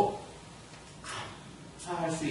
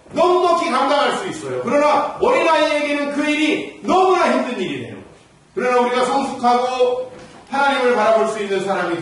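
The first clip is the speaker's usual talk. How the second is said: higher, louder ringing exhortation; preaching at full force; 11 semitones higher, 11 dB louder than usual. Acted. Pastor rebuking complaints, full-force preaching. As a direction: preach it out with fire.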